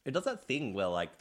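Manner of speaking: talking through a sour mouthful; eating sour candy. Real, not acted. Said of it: "Adam's pulling your face".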